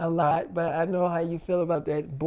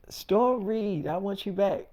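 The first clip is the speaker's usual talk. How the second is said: not meaning it; slower than usual. Retold or imitated. David saying it to Storm without feeling, flat. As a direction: say it like an obligation you don't believe. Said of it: "You're not saying it like you mean it".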